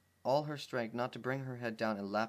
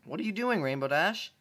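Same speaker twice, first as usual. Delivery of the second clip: filly voice; 6 semitones higher, 5 dB louder than usual. Acted. Scootaloo asks in character.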